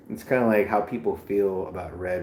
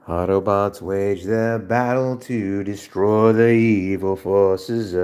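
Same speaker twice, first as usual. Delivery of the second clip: announcer voice; 6 dB louder than usual. Pretend. Announcer parody.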